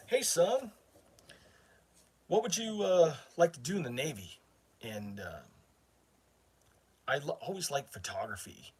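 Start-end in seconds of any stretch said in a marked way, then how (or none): 0.1-4.4 a much higher, friendly recruiter voice, imitated; mock recruiter voice. Imitating the Navy recruiter greeting the young man, in a higher mock voice. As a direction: play the cheery recruiter asking, son.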